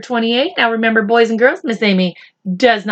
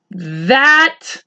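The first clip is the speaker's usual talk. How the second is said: cried; 7 semitones higher, much slower than usual. Acted. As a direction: build to a high cry. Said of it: "cried the earthworm".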